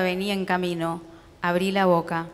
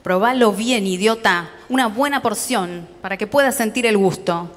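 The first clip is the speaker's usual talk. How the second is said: louder father talking through a mouthful; mouth full, rough; 5 dB louder than usual. Acted. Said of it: "Me habló con la boca llena".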